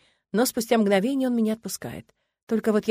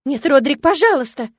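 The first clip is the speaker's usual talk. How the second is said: higher and louder, begging in fear; desperate pleading; 7 semitones higher, 9 dB louder than usual. Acted. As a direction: beg him to stop, terrified. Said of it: "мои мольбы". (отчаянная мольба, высоко и громко)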